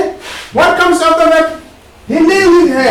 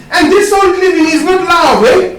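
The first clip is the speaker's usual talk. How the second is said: laughing shout; 4 semitones higher than usual. Real, not acted. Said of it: "laughing shout in sermon".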